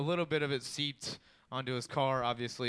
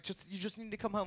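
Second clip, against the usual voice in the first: high, tearful mock plea; lightly acted crying voice, pitched high; imitated choked-up mother; 7 semitones higher, 3 dB quieter than usual. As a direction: imitate a mom struggling to talk. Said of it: "she couldn't talk".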